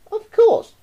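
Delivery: put-on high, loud boy's shout. Roy shouts at the starving anteater, bratty. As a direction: yell it down as a bratty boy. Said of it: "cried Roy".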